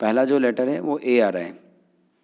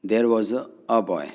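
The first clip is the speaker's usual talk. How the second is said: slow demo; much slower than usual. Shown as a demonstration. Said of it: "जैसे एक लड़का था".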